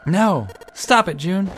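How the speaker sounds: high, loud, urgent yell; alarmed shout. Acted. Junpei trying to stop June, alarmed loud shout. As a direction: shout to stop her hurting herself.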